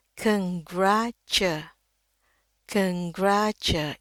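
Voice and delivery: slow "congratu-", lifting gra, dropping on tu; rising pitch on gra. Shown as a demonstration. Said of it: "ini agak sedikit naik ya nadanya". ("congratu-" pelan, nada naik di gra)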